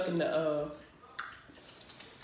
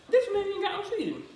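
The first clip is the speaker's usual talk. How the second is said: laughing; 11 semitones higher than usual. Real, not acted. Laughing at empty seeds.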